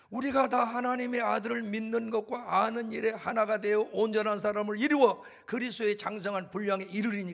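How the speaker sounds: loud, solemn recitation of the verse; scripture read with preaching force; proclaiming scripture. Real, not acted. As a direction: declaim the verse over the room.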